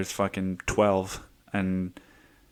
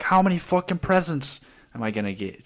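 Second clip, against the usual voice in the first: higher, whiny mock of a greedy kid; greedy kid mockery; 7 semitones higher than usual. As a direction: play the spoiled kid counting presents. Mocking his younger self's holidays.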